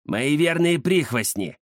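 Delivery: slow, smug boast; smug villain. Acted. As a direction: gloat over your henchmen. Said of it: "самодовольно оскалился Рыбий Глаз".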